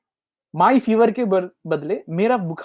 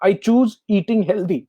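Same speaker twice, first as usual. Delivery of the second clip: very slow, each word weighed, CHOOSE leaned on; slow affirmation; 2 semitones higher, much slower than usual. Shown as a demonstration. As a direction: say it like a vow to yourself. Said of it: "मैं decide करूंगा कि मुझे healthy खाना है".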